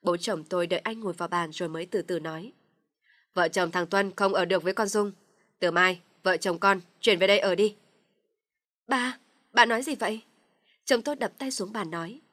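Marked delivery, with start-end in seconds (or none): 3.3-7.8 stern decree. Acted. Father announces decision. 8.9-10.2 shocked protest. Acted. Husband shocked at decision.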